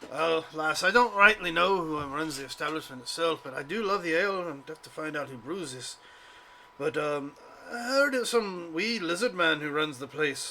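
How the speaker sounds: a light Scottish-tinged dwarf voice; hearty dwarf who loves his ale; jolly tavern dwarf, lightly voiced. Dwarf character voice.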